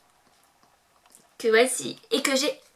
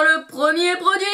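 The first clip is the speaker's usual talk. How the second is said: hyped reveal; 4 semitones higher, 4 dB louder than usual. Pretend. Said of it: "j'ai un petit peu déliré".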